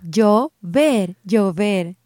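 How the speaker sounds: "llover" split into clear syllables. Shown as a demonstration. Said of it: "break down these words syllable by syllable".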